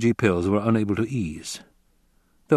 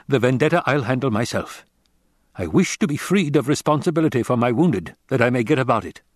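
put-on raised, tense voice of a tired old soldier; weary commander Hawat; 4 semitones higher than usual. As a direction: press the stranger for help.

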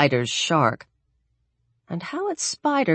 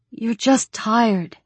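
soothing; 7 semitones higher, slower than usual. Acted. Alex soothes frantic Daniel.

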